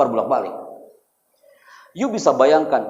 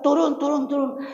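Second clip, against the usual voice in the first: mock crowd yell; 10 semitones higher than usual. Retelling how villagers yelled at the boy, mock high shout. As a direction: imitate a yelling crowd without the volume. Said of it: "Mereka teriak".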